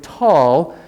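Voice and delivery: "tall" drawn out with an airy T; aspirated T. Shown as a demonstration. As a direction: say "tall" with a little H after the T. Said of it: "with a little H sound".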